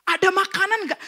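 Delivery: loud, high cry to God, long drawn out; belted, slow, high-pitched plea; retold hungry shout. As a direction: stretch it into a wailing yell to heaven. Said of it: "Saya selalu teriak".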